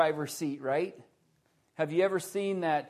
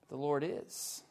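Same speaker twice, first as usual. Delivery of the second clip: softer, "is" left hanging on a rise; stress on IS; 7 dB quieter than usual. Shown as a demonstration. Preacher contrasting is with was, stress on "is". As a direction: lift "is" and pause after it. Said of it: "Present tense".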